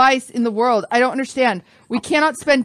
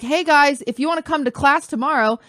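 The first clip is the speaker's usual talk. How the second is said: retold class announcement; 4 semitones higher than usual. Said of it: "to be like".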